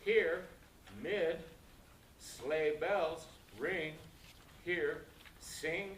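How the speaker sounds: each of "here, mid, sleigh bells, ring, here, sing" picked out with a stress and a pause; stressed key words. Shown as a demonstration. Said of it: "got to have those stresses".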